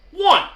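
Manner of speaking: One punched high and loud; emphatic one. Real, not acted. Stressing that he carried not one principle. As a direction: hit One hard as a single word.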